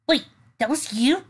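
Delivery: high, shocked question; surprised. Acted. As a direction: gasp the realization. Shocked character voice.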